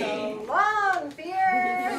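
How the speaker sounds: high, loud chant; rally the crowd; loud farewell. Shown as a demonstration. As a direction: call it out big. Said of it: "raise your right hand and say".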